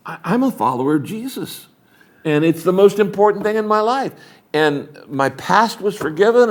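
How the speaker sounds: mildly pleading apology; acted confession. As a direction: confess sincerely, then soften into the apology.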